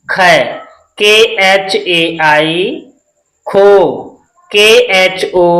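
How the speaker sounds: slow, drawn-out letter-by-letter recital; spelling drill recitation. Shown as a demonstration. Teacher drilling Hindi syllables and their English spellings, slow recitation.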